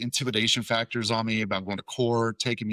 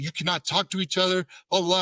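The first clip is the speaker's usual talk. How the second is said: mock yell; 8 semitones higher, faster than usual. Legal guy starts yelling.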